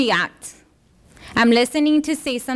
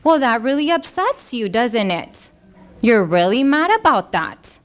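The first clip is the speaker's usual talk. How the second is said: gentle validating. Shown as a demonstration. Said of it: "get down to their level".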